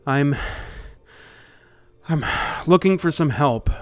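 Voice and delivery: lightly voiced winded man pleading for help; a touch of urgency, catching breath between phrases; frightened fugitive. Chased man explains his escape to strangers, mildly frantic. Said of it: "catch his breath a little bit".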